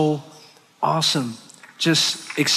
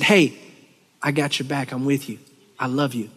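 fading softer and lower toward the end; God's reassuring voice; 4 semitones lower, 4 dB quieter than usual. Retold or imitated. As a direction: start warm, then settle into a quiet, tender reassurance. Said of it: "God came and he said".

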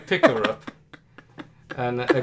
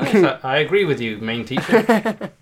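classroom assistant. Acted. Classroom assistant backing up the main teacher, lightly mocked. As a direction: put on a hint of the agreeable sidekick, stretching the last words. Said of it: "main teacher and then just someone".

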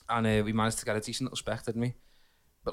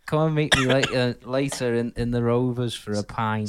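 Kev Webster impression; 4 dB louder than usual. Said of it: "Si does a really good Kev Webster".

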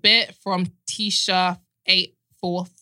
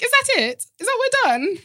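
high-pitched mock disbelief; mock disappointed lover; 13 semitones higher than usual. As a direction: play a let-down lover, pitched up. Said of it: "Like, you're like".

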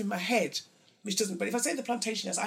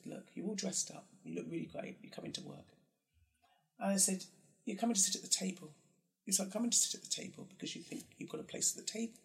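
hushed advice; 7 dB quieter than usual. Retold or imitated.

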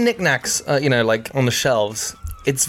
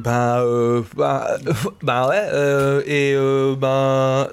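French filler noises; 2 semitones lower, much slower than usual. Retold or imitated. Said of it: "all these noises are actually really important".

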